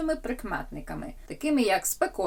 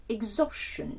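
exhaustion with the stress on its middle syllable, "haus"; 3 semitones higher than usual. Shown as a demonstration. Teacher modelling word stress for the table, stress on O in exhaustion. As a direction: say exhaustion carefully, leaning on the O sound. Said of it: "Наголос на О".

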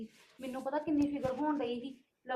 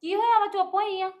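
alarmed mother; 6 semitones higher, 9 dB louder than usual. Acted. Mother finds daughter upset.

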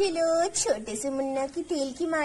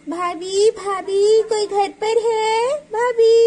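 calls out loudly to the house, voice rising; calling out; 4 semitones higher, 6 dB louder, slower than usual. Acted. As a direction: shout for her sister-in-law from outside the door. Calling out at neighbour's door.

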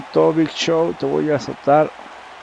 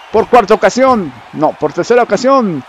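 very high, loud, slow finisher call; fighting game announcer; 12 semitones higher, 11 dB louder, slower than usual. Acted. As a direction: scream the finisher name like an arena announcer. Finisher hype, announcer style. (anunciador de lucha gritando)

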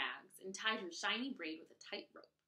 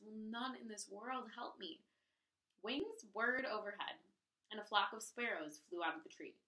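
lively read-aloud storytelling voice; story narration. A narrator's reading. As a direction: read it like a picture book for a class. Reads story to children.

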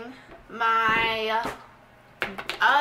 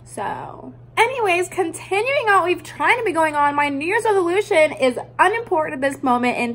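louder, fast fed-up rant; annoyed rant; 7 dB louder than usual. Real, not acted. Vlogger rants loudly because her camera keeps dying. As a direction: vent at the broken camera. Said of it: "I'm just mad at my camera".

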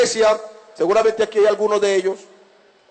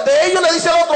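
normal talking voice

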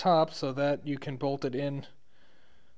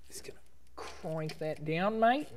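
whispering; 2 semitones higher, 7 dB quieter than usual. Real, not acted. Quiet aside while tightening.

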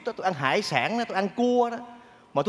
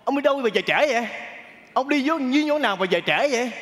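higher-pitched nagging wife; raised, hectoring mock telling-off; mock scolding; 5 semitones higher than usual. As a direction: imitate a wife scolding at the door. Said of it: "mới la ông sùm".

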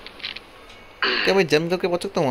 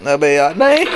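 frustrated outburst; 8 dB louder than usual. Real, not acted. Falls again in game.

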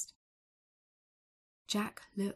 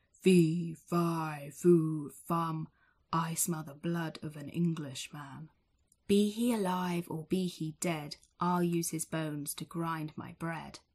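roaring giant; 4 dB louder than usual. Acted. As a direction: roar it like a huge giant. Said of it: "a giant looms begins to roar".

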